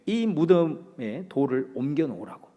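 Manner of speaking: usual speaking voice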